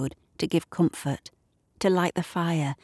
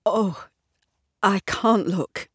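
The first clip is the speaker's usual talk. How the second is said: self-pitying cry; 4 semitones higher than usual. A narrator's reading. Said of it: "cries with such self-pity".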